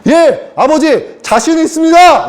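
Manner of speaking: a hammed-up keen soldier angel; eager angel reply. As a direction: boast proudly to the Father. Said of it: "이랬다고".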